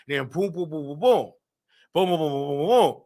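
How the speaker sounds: low rhythmic booming; imitated thumping. Recounting the lovemaking, imitated thumping. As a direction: rattle off booms as a sound effect.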